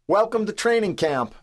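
high-pitched hearty bellow. A narrator's reading. Team captain welcoming the players to camp, bellowing. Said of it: "Al Wilson bellows".

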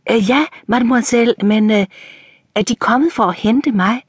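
lightly voiced old coachman, confused and hurried; flustered old servant. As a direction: stammer it out, caught off guard. Joseph flustered, meeting unexpected lady.

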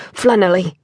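Llanelly said the Welsh way, "Flannelly" with a breathy Welsh ll; "Flannelly", Welsh ll as a voiceless hissed L; Welsh pronunciation. A narrator's reading. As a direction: correct the name as a native would, "Flannelly". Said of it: "Owen corrected automatically".

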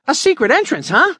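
put-on high, eager boyish gush; boy thrilled by a secret passage; excited gush. Billy gushing at the secret entrance, high and excited. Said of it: "gushed Billy, excited by the thought of it".

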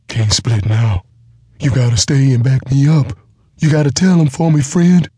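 high, loud, rushing giant plea; insistent giant half-wit. A narrator's reading. Giant refuses to let go.

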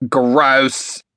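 mildly disgusted exclamation; short exclaimed ew-reaction; grossed-out exclamation. A narrator's reading. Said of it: "she exclaimed".

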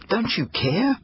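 put-on boy yelling at his parents in desperation; desperate yell. A narrator's reading. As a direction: yell it out in despair. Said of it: "he yelled".

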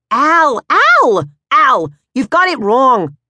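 panicked mother. Acted. Mother pleading with her husband mid-fight, panicked. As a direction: beg him to stop.

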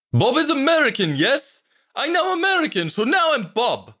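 put-on very high, proud Slavic-accented voice; strong Slavic accent. A narrator's reading. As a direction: explain eagerly in a thick Slavic accent. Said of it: "in a strong Slavic accent".

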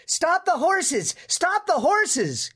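high, drawn-out call for help; urgent yell. A narrator's reading. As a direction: yell it high and slow, stretching each word. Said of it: "he yelled".

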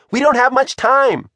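high-pitched pressing warning; urgent call. A narrator's reading. Margot hurries Shivers before the deadline, calling urgently. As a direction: press them to hurry. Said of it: "she called".

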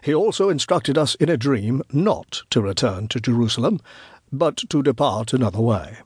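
gentle, measured authority; tender yet authoritative. Acted. Wise man tells old woman to stand aside, tender yet firm. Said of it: "He spoke tenderly, yet with authority".

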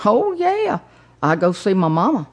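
lightly voiced older Texan accent, "yeah" pitched high; a touch of an old Texan driver's accent; older gentleman's accent. Driver tells passenger about visiting mama, light Texan accent. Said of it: "older gentleman with a unique accent".

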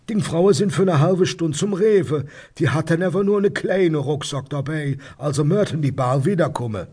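high-pitched Rhineland dialect neighbour; nosy neighbour. Acted. Neighbour passes on news from the street, high dialect voice. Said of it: "von meinem Nachbarn, Herrn Fassbender".

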